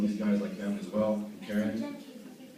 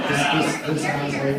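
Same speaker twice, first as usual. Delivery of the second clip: excited; 6 semitones higher, 10 dB louder than usual. Real, not acted. Excited after the joke.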